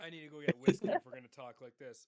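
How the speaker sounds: loud, worked-up outburst; mad. Real, not acted. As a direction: blow up in offended exasperation, loudly. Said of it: "We made John mad".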